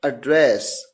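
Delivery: एड्रेस with a reduced first vowel and the stress on DRESS; एड्रेस said uh-DRESS, as the verb; verb pronunciation of address. Shown as a demonstration. Teacher repeating the verb form for the class, stress on DRESS. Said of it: "जब इसे as a verb pronounce किया जाएगा".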